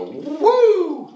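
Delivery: high, loud woo; whooping "woo". Pretend. Co-host acting out a heavy indica hit, high mock whoop. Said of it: "gonna wanna make you go".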